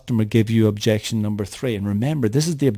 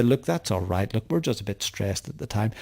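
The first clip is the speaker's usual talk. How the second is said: quieter, conciliatory customer; accepting an apology; 7 dB quieter than usual. Acted. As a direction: soften and excuse yourself to the caller. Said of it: "They'll accept your apology and say".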